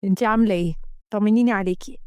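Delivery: lightly voiced caring man; apologetic lover. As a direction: excuse yourself, then check on her gently.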